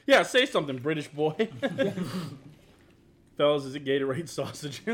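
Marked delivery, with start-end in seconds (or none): 0.1-1.5 louder mock taunt from a gamer; mocking voice chat gamer. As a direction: tease like a voice-chat kid. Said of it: "I'll get asked to say something British".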